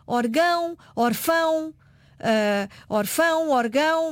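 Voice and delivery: "Orgão" and "orfão" stressed on the final -ão; teacher listing the unaccented forms, stress on -ão; wrong stress demo. Shown as a demonstration. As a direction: show how the words sound without an accent mark, stress on -ão. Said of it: "se eu não colocar o acento".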